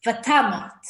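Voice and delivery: vatamot read with the stress on the last syllable; Hebrew reading. Shown as a demonstration. Teacher reading vatamot aloud to students. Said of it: "Vatamot Sarah".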